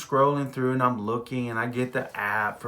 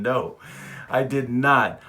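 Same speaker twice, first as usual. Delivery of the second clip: louder, deliberate no, I did not; insist, pretending to be serious; mock-firm denial with a wink; 3 dB louder, slower than usual. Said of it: "I'm shaking my head, yes, but I'm saying".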